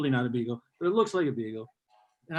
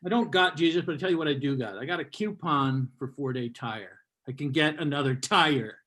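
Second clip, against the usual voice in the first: mock mimicry. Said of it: "Let's use your language".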